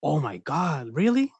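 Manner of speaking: gasping fake surprise, pitch jumping up on really; mock shocked. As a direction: play up a fake shocked reaction. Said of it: "Rick Reed is all like".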